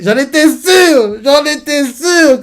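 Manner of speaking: real excitement; excited. Real, not acted. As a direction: crow that you called it. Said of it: "excited self-congratulation".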